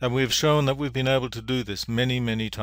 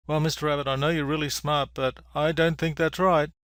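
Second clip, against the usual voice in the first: lightly voiced bunny, pitched up; politely disagree as a little storybook bunny; higher-pitched, mildly acted doubt; doubtful bunny; 4 semitones higher than usual.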